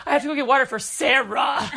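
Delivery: lightly voiced Mom, laughing; a hint of Mom's sing-song, giggling; mocking Mom. Daughter lightly mimics Mom's errand line, laughing. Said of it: "Did I say it like that?".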